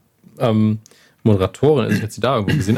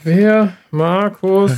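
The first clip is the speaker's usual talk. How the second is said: surprised; 8 semitones higher, 3 dB louder, much slower than usual. Real, not acted. Surprised at unknown name.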